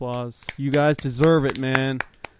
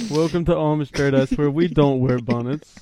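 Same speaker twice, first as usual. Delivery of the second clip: slogan voice; 5 dB louder than usual. Pretend. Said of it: "That's their slogan".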